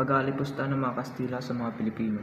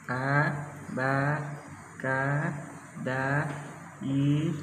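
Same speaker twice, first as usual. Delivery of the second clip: put-on child reciting; much slower than usual. Child reciting alphabet aloud.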